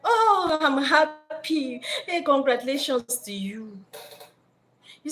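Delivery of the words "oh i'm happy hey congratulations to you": high, slow, insincere cheer; mock-happy boyfriend; fake congratulations. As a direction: drag out a hollow congratulations. Man fakes joy at news.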